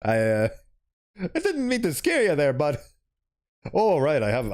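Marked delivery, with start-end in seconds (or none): 1.3-2.8 high, giggling apology; laughing apology. Acted. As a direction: chuckle through the sorry. Player apologizing to character.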